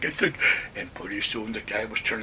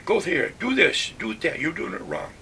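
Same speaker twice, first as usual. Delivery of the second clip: bossy sergeant orders; 5 semitones higher, 4 dB louder than usual. Retold or imitated.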